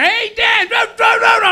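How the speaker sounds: very high, squeaky mock voices; garbled bar chatter. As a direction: imitate noise you can't make out. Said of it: "Or I hear".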